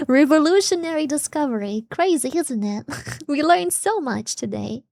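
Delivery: lively, exaggerated sarcastic wonder; mock amazement. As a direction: act amazed at the blindingly obvious. Sarcastic awe at an obvious fact.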